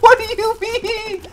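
laughing disbelief. Real, not acted.

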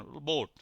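"বোট" with a pure long o. Shown as a demonstration. Teacher showing a long German vowel, held o in "বোট". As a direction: hold the o in "বোট". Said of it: "ও এর মতো উচ্চারণ".

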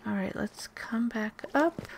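whispering. Real, not acted. Whispering slowly.

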